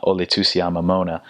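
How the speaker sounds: flat English vowels on "Ole Tusia Mamona"; anglicized Samoan; English accent. Shown as a demonstration. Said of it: "we'd try saying, not".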